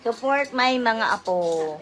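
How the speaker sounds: loud, slow tipsy greeting. Real, not acted. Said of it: "Feeling ko lasing na talaga si Ma'am mo".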